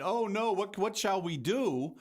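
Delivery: high-pitched mock helpless woman; imitating a sniveling, helpless woman. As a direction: whimper it like a helpless damsel, hammed up. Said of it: "a sniveling woman just going".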